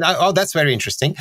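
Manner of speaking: "Oh, oh, that's very interesting" with a quick rising lilt; British dismissive intonation. Shown as a demonstration. Speaker showing colleagues how a Brit politely says no, with a light rising lilt. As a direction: politely brush it off with a light rise on oh. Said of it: "the intonation is very important".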